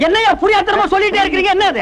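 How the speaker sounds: high-pitched, impatient questioning; exasperated outburst. Acted. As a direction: raise your voice in exasperation. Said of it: "கொஞ்சம் மெதுவா பேசுங்க". (எரிச்சலோடு உயர்ந்த குரலில்)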